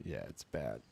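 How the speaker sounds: garbled alien-sounding mic voice; distorted mic. Real, not acted. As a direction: speak through a glitching microphone. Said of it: "You're an alien again".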